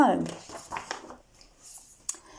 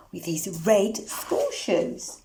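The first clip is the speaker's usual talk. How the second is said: put-on hushed whisper to the kids; a secret little whisper; 6 semitones lower, 5 dB quieter than usual. Reader whispers to listening children, soft whisper.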